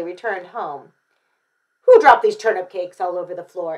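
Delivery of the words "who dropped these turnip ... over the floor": loud, indignant Mister Chan; big storybook-dad outburst; exclaiming father. A narrator's reading. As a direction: demand to know who made the mess. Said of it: "exclaimed Mister Chan".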